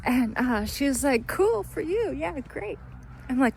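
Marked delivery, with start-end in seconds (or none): 1.3-2.8 much higher, airy brush-off; bored officer. Retold or imitated. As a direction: humour her, not interested.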